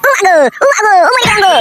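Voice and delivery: hammed-up wails of agony; crying out in pain. Husband attacked by wife, hammed-up cries of pain. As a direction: wail as if being mauled.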